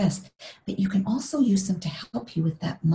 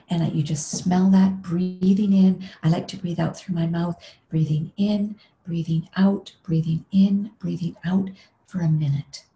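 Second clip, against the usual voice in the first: guided meditation. Shown as a demonstration. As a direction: guide each breath in and out calmly. Leads breathing with oil.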